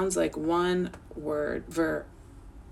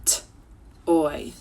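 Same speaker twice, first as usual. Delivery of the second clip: T-oy split into two sounds. Shown as a demonstration. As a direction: break "T-oy" into its sounds.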